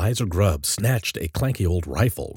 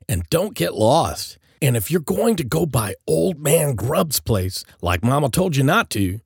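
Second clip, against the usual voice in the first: higher, lively big-brother warning; cautioning; 7 semitones higher, 4 dB louder than usual. A narrator's reading. Joel sending the kids out trick-or-treating, cautioning. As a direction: lay down rules, firm but friendly. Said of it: "Joel cautioned".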